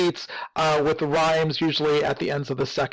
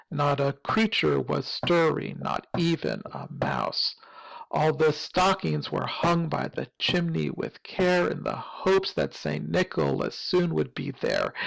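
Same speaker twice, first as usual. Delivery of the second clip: poem reading; 3 dB quieter than usual. Shown as a demonstration. Reads poem lines to show meter.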